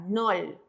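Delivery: "nol" ending on an L; pronunciación modelo. Shown as a demonstration. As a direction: demonstrate "nol" with the final L sounded. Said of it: "toda la ariel se va a pronunciar". (pronunciar "nol" con L final)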